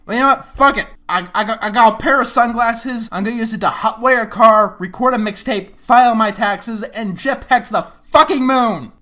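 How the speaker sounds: sarcastic. Real, not acted. Sarcastic escalating list of absurd uses.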